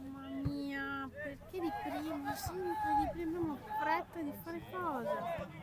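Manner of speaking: frustrated muttering. Real, not acted. Grumbling at a poor pass.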